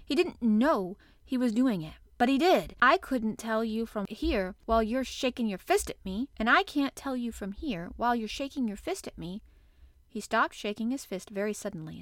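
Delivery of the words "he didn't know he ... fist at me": obstinate protest. Acted. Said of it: "she protested obstinately".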